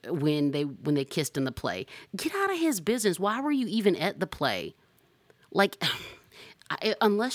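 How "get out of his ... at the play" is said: exasperated. Real, not acted. Exasperated repeated refrain.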